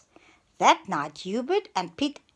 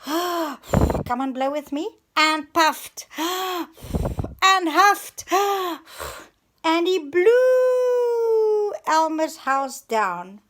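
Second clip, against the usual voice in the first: high, slow, loud gasping blow; huffing and puffing; 9 semitones higher, 7 dB louder, much slower than usual. Acted. Reader blowing the house down with the children, huffing. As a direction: puff hard between words like a straining wolf. Reader huffs and puffs as wolf.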